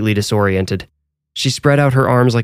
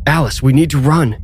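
raised, urgent higher-pitched cry; shout; 5 semitones higher than usual. A narrator's reading. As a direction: shout a warning to flee. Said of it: "he shouted".

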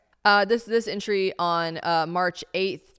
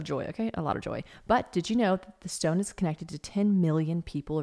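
measured, scripted promotional read; sponsor ad read. Real, not acted. Host selling natural diamonds to listeners, ad read. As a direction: present the product like a podcast sponsor.

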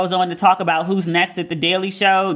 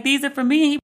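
higher-pitched, touched wonder; retold touched reaction; 8 semitones higher than usual. Host retells Trevor receiving flowers, touched. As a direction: lightly imitate someone moved by a gift. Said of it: "he seemed genuinely touched".

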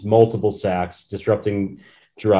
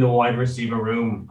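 mock British accent. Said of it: "a little bit of a famous singer".

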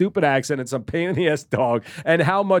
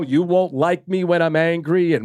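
mock threat; 3 semitones higher than usual. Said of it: "basically threatening me".

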